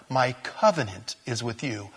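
"covenant" picked out and leaned on; stress on COVENANT. Shown as a demonstration. Preacher shows another emphasis in God's promise, stressing "covenant". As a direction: put the weight on "covenant", not "my". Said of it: "try the emphasis on different words".

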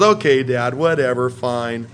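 put-on roll-the-eyes teen reply; dismissive teen. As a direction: daughter waving off her dad, dismissive. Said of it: "And she goes".

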